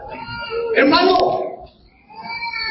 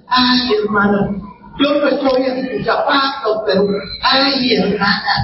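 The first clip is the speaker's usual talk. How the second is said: lower, put-on weepy commiseration; mock tearful pity; 3 semitones lower than usual. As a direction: imitate a weepy sympathizer sighing "ay". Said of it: "venga y le diga con lágrimas".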